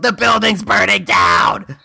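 slow, drawn-out mock yell of alarm; a hammed-up warning shout to the townsfolk. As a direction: call it out to panic the crowd. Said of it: "and I also yelled".

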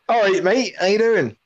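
mock matey British accent; British street greeting. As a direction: greet a passer-by in broad British slang. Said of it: "they walk past you and go".

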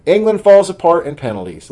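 high, loud imagined groan of doom; mock dread. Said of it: "and you're like".

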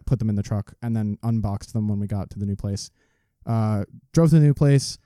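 audible breaths between words; heavy nose breathing. Real, not acted. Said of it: "Stop breathing into the mic".

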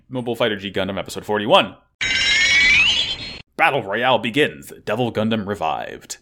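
even, announcer-like episode summary; synopsis read. Acted. Host introducing the next episode, steady announcer read. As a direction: read the recap like a preview.

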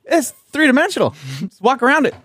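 high, fast mock enthusiasm; sarcastic. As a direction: sell the tree like an ad. Mocking the article.

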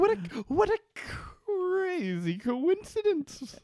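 high, slow hammed-up wonder; mock amazement. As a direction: gush over the coincidence in fake awe.

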